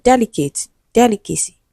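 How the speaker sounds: "delicate, delicacy", each stressed on "del"; first-syllable stress. Shown as a demonstration. Teacher giving students stress examples, first syllable stressed in "delicate" and "delicacy". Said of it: "stressed on the first syllable".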